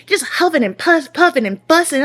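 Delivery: high-pitched, worked-up griping; exasperated mockery. Wife complaining about husband fussing to himself, exasperated.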